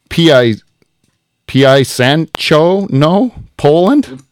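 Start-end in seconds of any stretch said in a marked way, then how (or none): 0.1-2.8 halting, slow stab at "P I Sancho"; struggling to pronounce. Real, not acted. Podcast host stumbling over a foreign listener location, struggling to pronounce. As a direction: sound out "P I Sancho" piece by piece, unsure. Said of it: "I don't even know how to say this".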